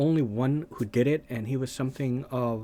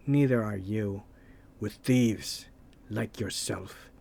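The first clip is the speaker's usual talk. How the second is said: a lower, slow movie-hero voice; low, slightly put-on Conan reply; 2 semitones lower, slower than usual. Conan answering the thief, lightly voiced low and slow. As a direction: deliver the comeback low and slow. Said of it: "It was Conan who said".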